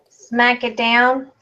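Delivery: slow, forceful "smack it down"; rough. Pretend. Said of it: "You're so rough".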